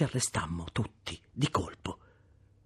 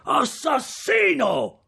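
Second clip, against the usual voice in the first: long, drawn-out high cry from afar; desperate drawn-out scream of murder; shouting murder; 6 dB louder, much slower than usual. Acted. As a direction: howl it across the marsh, slow and loud. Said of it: "una voce che gridava".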